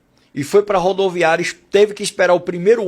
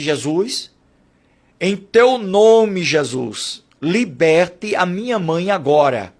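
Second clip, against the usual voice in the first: slow, louder rebuke in Jesus' name; commanding prayer; 3 dB louder, much slower than usual. Retold or imitated. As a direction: command the demon to leave, slowly. Casting out a demon in prayer. (oração de libertação, forte e lenta)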